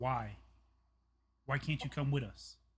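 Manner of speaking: theatrical stage half-whisper. In a drama, half-whispering back to someone urging them through the tunnel. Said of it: "I'm just whispering back".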